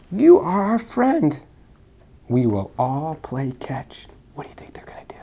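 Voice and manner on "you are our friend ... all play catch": slow warm. Acted. Piggy comforts snake.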